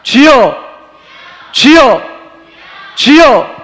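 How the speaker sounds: high, loud repeated call to God; fervent shouts, one at a time; earnest crying out. Shown as a demonstration. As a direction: cry out with all your heart. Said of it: "주여라고 간절히 부르지와".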